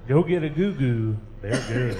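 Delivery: loud radio announcer selling candy bars; Opry announcer. Pretend. Bandmate playing the Grand Ole Opry announcer, loud. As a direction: boom it out like an old Opry host. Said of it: "let the Opry announcer come on".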